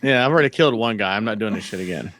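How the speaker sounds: understated fed-up grumble; lazy, annoyed. Retold or imitated. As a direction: play along as a reluctant henchman. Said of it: "annoyed about it".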